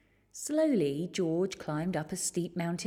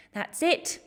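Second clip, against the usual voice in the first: high, loud cry of giving up; exhausted cry; 9 semitones higher, 5 dB louder than usual. A narrator's reading. Tired boy on the mountain, loud fed-up cry. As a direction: throw up your hands and cry out. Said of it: "he cried".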